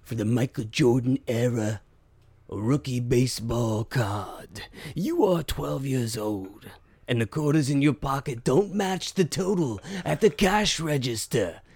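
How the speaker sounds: slow, weighty movie-trailer read; slow dramatic narrator for the card shop ad; dramatic trailer narration. Acted. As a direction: pull them into a nostalgic flashback. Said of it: "Do Country Cards advertisement".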